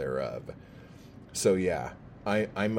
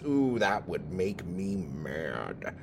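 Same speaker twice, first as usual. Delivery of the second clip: sarcastic; slower than usual. Acted. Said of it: "that sarcasm was laid on thicker".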